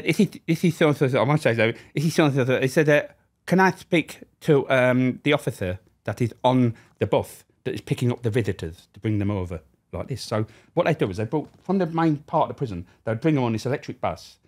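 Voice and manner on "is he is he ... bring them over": Yorkshire lisp impression. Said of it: "Yorkshire with a lisp".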